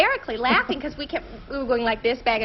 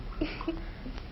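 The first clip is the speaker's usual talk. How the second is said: soft, breathy laugh; quiet real chuckle; 3 semitones higher, 14 dB quieter than usual. Real, not acted. Wife hears husband's answer about the wedding, soft laugh. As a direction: laugh under your breath.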